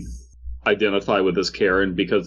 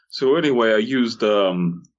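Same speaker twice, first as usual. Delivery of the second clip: mock Boomhauer clone. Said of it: "Boomhauer clones is just like".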